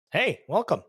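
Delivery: high, far-off text-to-speech voice; old speech synthesizer. Acted. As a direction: read it like a typed robot voice. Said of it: "types on his little pad and it says".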